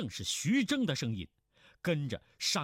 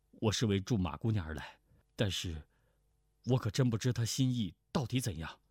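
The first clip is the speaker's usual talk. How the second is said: 胡斐；压低嗓音的年轻侠客对白；low-pitched, slightly hurried hero's voice；胡斐低声说出心中疑虑; 5 semitones lower, faster than usual. Acted.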